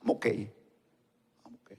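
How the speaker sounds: low, quiet, slow imitation of someone claiming to be fine; desanimado. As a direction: mumble it low and slow, unconvincingly. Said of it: "la expresión que yo conozco de ellos dice". (imitando un desánimo, bajo y lento)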